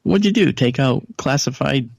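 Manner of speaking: patient teasing the doctor with mock surprise. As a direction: play up the shock as a joke. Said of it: "You know, making a joke".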